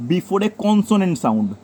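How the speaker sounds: very slow, each word separate; slow dictation. Shown as a demonstration. Teacher dictating the consonant rule to students, very slow. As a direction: dictate it slowly for the notebook. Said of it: "note down করো".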